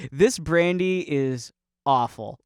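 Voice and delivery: slow, deliberate mock compliment; mock awed praise. Praising brandy in the old sense, slow mock reverence. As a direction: draw it out as grand praise. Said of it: "worthy of awe".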